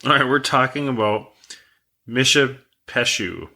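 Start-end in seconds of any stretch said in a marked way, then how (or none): 2.1-3.5 MISHAPESHU said slowly, 'mish-uh-PESH-oo'; chosen pronunciation. Shown as a demonstration. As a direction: slowly sound out Mishapeshu with 'pesh' in it. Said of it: "That's how I'm pronouncing it".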